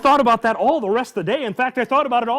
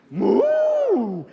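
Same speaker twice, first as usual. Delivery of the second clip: cow moo; 7 semitones higher than usual. Acted. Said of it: "all day long he hears".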